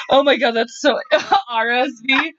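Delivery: laughing so hard it hurts; words squeezed out through tears of laughter; crying with laughter. Real, not acted. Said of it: "made me laugh so hard I'm crying".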